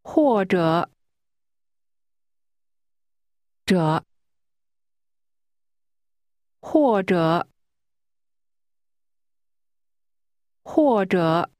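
language-drill 或者, each syllable's tone drawn out; falling, then falling-rising tone. Shown as a demonstration. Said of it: "pronounced with a falling tone".

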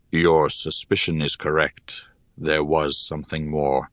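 put-on low, calm old mentor; wise old teacher voice. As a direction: speak like a grave old sage. Cairpray speaks, low voice.

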